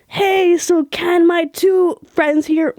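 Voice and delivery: lightly voiced friend asking sweetly; buddy asking a favour. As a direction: mimic a friend angling for a favour.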